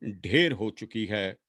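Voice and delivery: measured lament, lines rising and then falling away; poem recitation. Acted. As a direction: recite a sister's farewell with long pauses between phrases.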